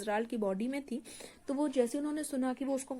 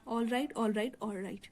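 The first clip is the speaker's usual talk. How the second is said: scared; much slower than usual. Acted. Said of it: "George थोड़ा डर गया".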